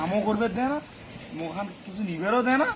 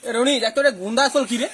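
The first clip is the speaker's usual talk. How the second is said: calling out; 4 semitones higher, 8 dB louder than usual. Acted. Calling out to Roni.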